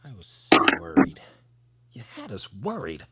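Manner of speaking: mock-earnest, worried admission; vulnerable. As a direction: play at owning up to worry. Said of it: "I coulda been vulnerable and just said".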